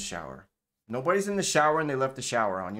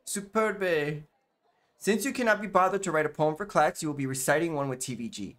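put-on French accent, raised pitch at first; French teacher accent; 3 semitones higher than usual. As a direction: order a pupil about in a French accent. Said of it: "a French accent".

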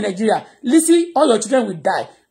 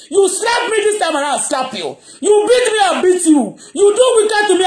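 raised voice; 6 semitones higher than usual. Real, not acted. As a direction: raise your voice in anger, half laughing. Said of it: "that's why I raise my voice".

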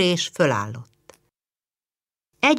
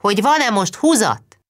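calling down; 6 semitones higher, 4 dB louder than usual. A narrator's reading. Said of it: "kiabált le Báthori úr".

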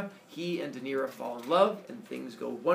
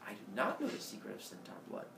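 deadpan damsel; 6 semitones lower, 10 dB quieter, faster than usual. Acted. Daenerys voiced replying.

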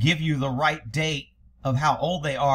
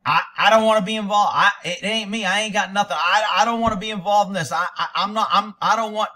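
louder, fast, panicky babbling; panicked pleading; 3 semitones higher, 4 dB louder than usual. Retold or imitated. Suspect jumping out of the car pleading not involved, panicked. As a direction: gabble it out like you're terrified of being dragged in. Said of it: "put their hands up, and say".

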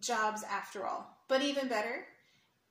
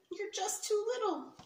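gentle uncle letdown; 10 semitones higher than usual. Acted. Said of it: "Uncle Albie said".

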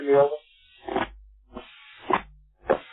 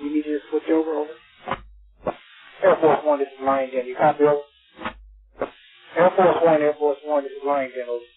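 tinny radio transmission; over walkie talkie; 7 semitones higher than usual. Real, not acted. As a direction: voice through a handheld radio. Distant station calling over radio.

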